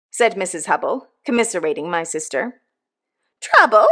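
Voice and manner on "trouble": "Trouble?" loud and high, falling at the end; a falling "Trouble?" thrown back at her guest; echoed. A narrator's reading. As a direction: snap the word back in disbelief. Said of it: "echoed my sister".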